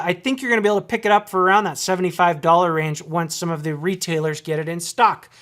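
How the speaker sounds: slightly winded, talking fast; breathless after a long run of talk; out of breath. Real, not acted. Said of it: "I'm out of breath".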